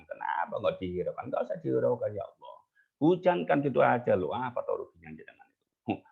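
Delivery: a mild, imitated grumble at God; grumbling. Bareh grumbling bluntly at God over rain, mild mock scolding. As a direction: lightly scold with cheeky bluntness. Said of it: "cuma ngomel-ngomel gitu sama Allah".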